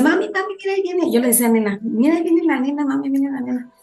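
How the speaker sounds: a hint of a girl calling her mum; little girl to mum. Child pointing out passer-by to mum.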